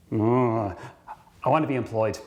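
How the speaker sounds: hushed, breathy mock whisper; whispered aside. Employee answers the boss's ultimatum, whispering. Staff reply to travel ultimatum.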